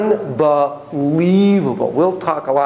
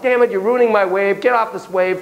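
raised-pitch imitation of irritation; mock pissed off; 5 semitones higher than usual. Surfer imitating the man behind him, mildly pissed off. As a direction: play an annoyed surfer telling someone off. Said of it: "feeling pissed off".

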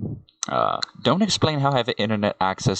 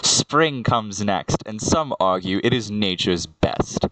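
careful second attempt at the verse; poem retake. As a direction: recite it cleanly, drawing out "Spring comes next". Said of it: "let's try that again".

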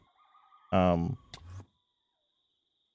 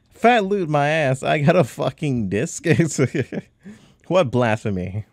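indignant; 7 semitones higher, 6 dB louder than usual. Real, not acted. Disappointed by loot.

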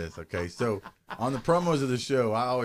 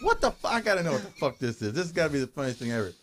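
astonished; faster than usual. Retold or imitated. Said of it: "and I'm like".

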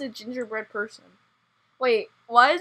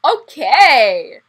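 louder, excited shout; loud excited okay; 11 dB louder than usual. Real, not acted. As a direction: shout it back eagerly. Enthusiastic reply.

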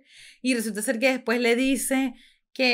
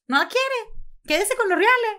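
pleading quote; 10 semitones higher, 3 dB louder than usual. Retold or imitated. Quoting pleading woman in drama.

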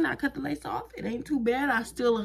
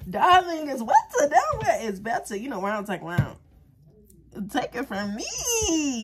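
mock crab voice; 3 semitones higher than usual. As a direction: play the wise cartoon crab.

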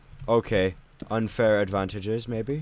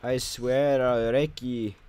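slow, higher mock Aussie threat; aussie eshay slang; 5 semitones higher, 3 dB louder, slower than usual. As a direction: ham up a rough Aussie lad. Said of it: "Shut up, mate".

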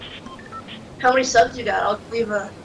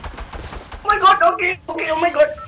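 put-on Indian accent; 8 semitones higher than usual. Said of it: "it's really fun talking in Indian accent".

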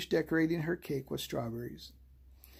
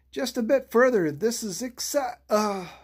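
urging on; 7 semitones higher, 5 dB louder than usual. A narrator's reading. Leader urges on, then falters.

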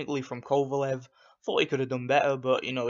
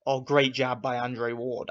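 mock commentator; slower than usual. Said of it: "and they would say".

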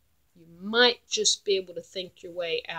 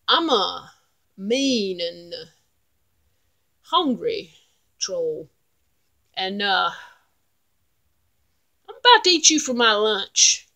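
mean troll threat; 6 dB louder than usual. Acted. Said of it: "Troll said".

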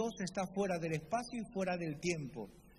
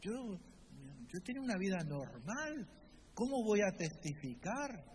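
excusing believer; 4 semitones higher than usual. Retold or imitated. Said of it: "Y dice".

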